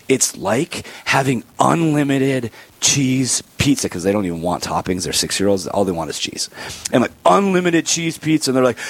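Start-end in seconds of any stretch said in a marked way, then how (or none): 0.1-3.9 slow, drawn-out tempting voice; enticing pitch. Shown as a demonstration. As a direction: sell it like a treat, very slowly. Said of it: "I say".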